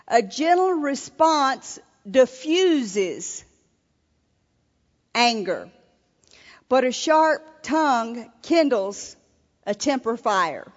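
deliberate, emphatic Bible verse; scripture reading. Acted. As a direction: proclaim the proverb, weighting the key words. Reads scripture aloud to audience.

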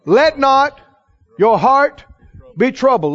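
measured command, broken into emphatic pieces; firm order. Retold or imitated. Preacher reads out the Lord's order to the congregation, firm command. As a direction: give each phrase its own weight, pausing between. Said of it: "What's the order?".

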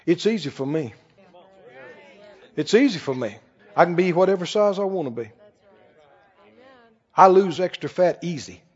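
low, soft affirmation; calm confession. Shown as a demonstration. Preacher models a soft self-affirmation for dieters. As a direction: say it quietly, with calm certainty. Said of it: "What if you said".

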